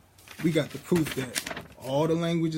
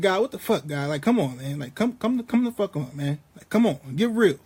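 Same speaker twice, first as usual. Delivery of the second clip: half-acted exasperated complaint to God, no real shouting; mildly mock a man fed up with God; mouthing off. Job mouthing off to God, lightly voiced exasperation. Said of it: "that's the tone in which he is mouthing off to God".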